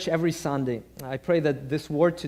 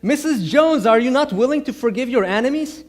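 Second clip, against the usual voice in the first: mock exasperated pastor, higher; a frustrated challenge to the old lady; 5 semitones higher, 3 dB louder than usual. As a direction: pastor half-scolding Missus Jones. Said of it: "he gets frustrated".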